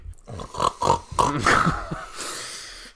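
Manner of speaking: gross laugh. Real, not acted. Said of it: "that was disgusting".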